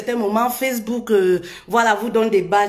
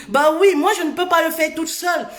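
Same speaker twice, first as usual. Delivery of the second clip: emphatic outburst; 4 semitones higher, faster than usual. Real, not acted. Urging viewers to share.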